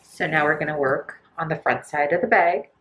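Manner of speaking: muffled behind a mask. Real, not acted. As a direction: speak through a face mask. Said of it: "If I sound muffled".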